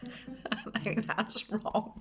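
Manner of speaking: real, breathless giggling; laughing apology. Real, not acted. Storyteller got the ending wrong, laughing as she apologises. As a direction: apologise while cracking up.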